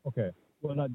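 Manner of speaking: muffled phone line. Real, not acted. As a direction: sound muffled, like from a pocket. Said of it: "you're very muffled".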